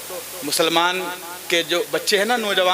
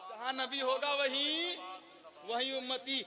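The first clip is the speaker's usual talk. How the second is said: very soft, higher-pitched and slow; hushed repeat; 5 semitones higher, 15 dB quieter, slower than usual. Real, not acted. Preacher echoing the promise to the congregation, hushed repeat. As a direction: drop to a tender hush after the climax.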